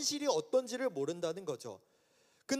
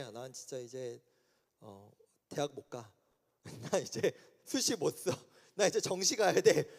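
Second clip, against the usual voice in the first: dejected, quieter mock lament over a failed exam; despairing student; 7 semitones lower, 3 dB quieter than usual.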